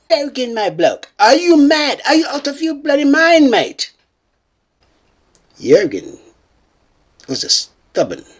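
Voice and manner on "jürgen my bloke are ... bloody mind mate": mock outrage. Acted outrage at challenge.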